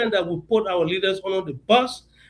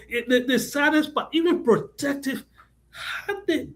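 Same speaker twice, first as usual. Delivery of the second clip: emotional; 5 semitones higher than usual. Real, not acted. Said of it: "I'm getting a little emotional about it".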